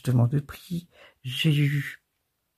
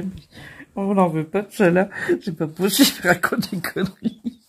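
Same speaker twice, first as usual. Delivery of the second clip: mock brand reply; 3 semitones higher, 4 dB louder than usual. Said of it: "je dirais".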